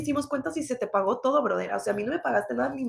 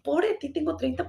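higher, whiny pity-me tone; mock self-pity; 4 semitones higher than usual. Mocking her own complaint about turning thirty, mock self-pity. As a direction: play the sorry victim, lightly. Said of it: "en vez de decir".

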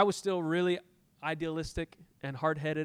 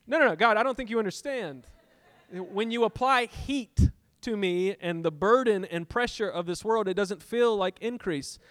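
raised, insistent mock protest; protesting to God; 5 semitones higher, 5 dB louder than usual. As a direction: argue back, higher and louder.

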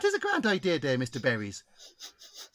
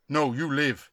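caricatured spirit chief; 3 semitones lower than usual. Acted. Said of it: "Chief Hanging Berry, spirit guide".

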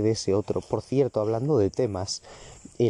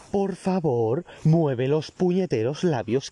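exasperated plea; 4 semitones higher, slower than usual. Acted. Ranting at mumbling speakers.

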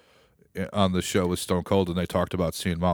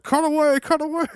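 J R impression. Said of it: "J R's like".

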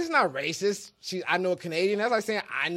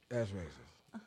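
mocking quote; 13 semitones lower, 17 dB quieter, much slower than usual. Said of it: "You just said".

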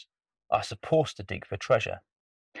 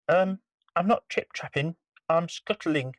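high, small, timid creature; tiny spider voice; 7 semitones higher than usual. Acted. Spider answers the troll.

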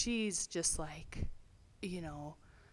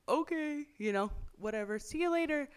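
higher, airy brush-off; dismissive whatever; 9 semitones higher than usual. Retold or imitated. Teen dismissing aunt's plea, airy and higher. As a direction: wave it away and leave. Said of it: "And I'm like".

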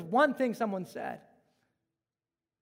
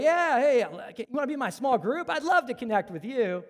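fawning; 4 semitones higher than usual. Retold or imitated. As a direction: suck up to the rich man. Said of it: "showing a lot of love towards".

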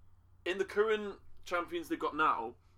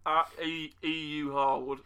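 mouth full; 4 dB louder, much slower than usual. Real, not acted. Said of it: "I'm eating a strawberry donut when he said that".

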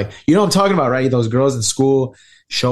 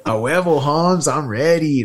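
mock movie cholo; 4 semitones higher than usual. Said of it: "representation that Latinos get in movies is".

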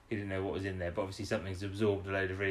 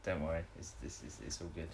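mock reassurance; 6 semitones lower, 12 dB quieter than usual. Mock reassuring line from show.

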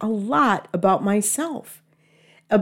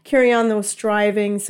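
dramatic sigh. Retold or imitated. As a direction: sigh it out, self-pitying. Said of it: "And then afterward".

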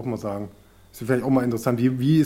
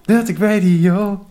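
laughing; 4 semitones higher, slower than usual. Real, not acted. Laughing through jingle retake.

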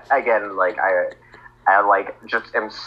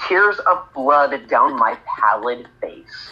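tag melodramatic narration; 3 semitones higher, much slower than usual. Acted. Repeats the melodramatic line.

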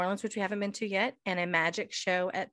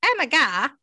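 higher, louder mock exclamation; loud, pitched-up retold excitement; imitating starstruck amazement; 5 semitones higher, 6 dB louder than usual. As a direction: blurt it in pretend disbelief. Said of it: "Not quite like me, but".

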